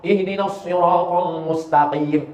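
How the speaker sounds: Ihdinas siratal mustaqim chanted slowly; slow recitation. Shown as a demonstration. Preacher reciting the verse, slow. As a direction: recite with care. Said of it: "salah pada shad".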